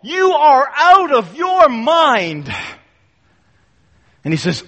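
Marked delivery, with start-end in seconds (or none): 0.0-2.5 slow, louder outburst; crying out. Retold or imitated. Felix crying out at Paul in court, slow loud accusation. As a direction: hurl the accusation slowly. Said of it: "Felix crying out to Paul".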